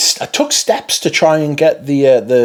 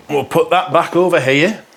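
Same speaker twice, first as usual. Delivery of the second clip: slipping into a Yorkshire accent; accidental Yorkshire lilt; 3 semitones higher than usual. Real, not acted. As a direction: let a bit of Yorkshire creep in. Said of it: "turned into a, a Yorkshire accent".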